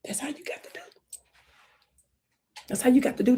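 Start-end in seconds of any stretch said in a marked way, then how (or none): 0.0-1.0 unvoiced hush; soft whispered advice; whispered aside. Real, not acted. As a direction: whisper it like a secret tip.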